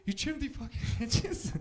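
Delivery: high, loud, drawn-out incredulous impression; Mark Wahlberg. Movie star questioning his gardener about hedges, slow incredulous impression. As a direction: echo it slowly in overblown disbelief. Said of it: "Does he talk like that every day?".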